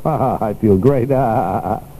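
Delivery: forced chuckle while saying it; acting happy. Shown as a demonstration. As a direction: fake a cheerful laugh through the words. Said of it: "Act happy, and you'll grow into the role".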